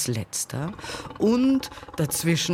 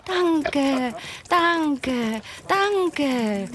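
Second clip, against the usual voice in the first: high, eager cries from a crowd; shrieking animal clamour; shouting animals; 13 semitones higher, 3 dB louder, much slower than usual. A narrator's reading. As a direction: cry out thanks in a high voice. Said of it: "schrien die Tiere".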